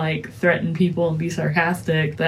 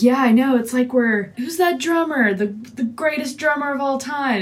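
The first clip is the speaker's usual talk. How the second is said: raised, lively retelling of the character; quoting Abby Hoffman; 7 semitones higher than usual. Retold or imitated. Friend retelling the movie scene, mock Abby Hoffman voice. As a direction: play him up, a bit higher and eager.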